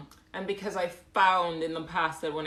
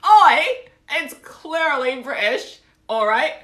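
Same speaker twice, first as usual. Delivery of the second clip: loud, high British "Oi!" outburst; jokey indignation in a bad British accent; mock indignant; 8 semitones higher, 11 dB louder than usual. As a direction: protest loudly with a laugh behind it.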